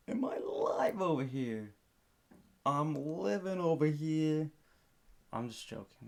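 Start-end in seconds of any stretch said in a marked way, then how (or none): 0.1-4.5 hammed-up New York accent, slow and drawn out. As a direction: play a loud, slow New Yorker. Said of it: "That's my, um, my New York accent?".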